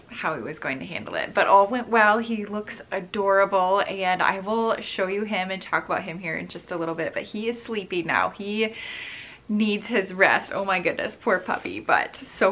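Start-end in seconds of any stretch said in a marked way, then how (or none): none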